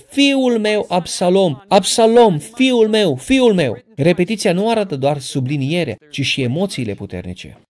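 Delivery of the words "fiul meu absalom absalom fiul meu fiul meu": higher, louder anguished cry of a grieving king. Retold or imitated. King David crying out for his son Absalom, loud grieving cry. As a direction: wail the son's name out loud. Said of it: "Împăratul striga în gura mare".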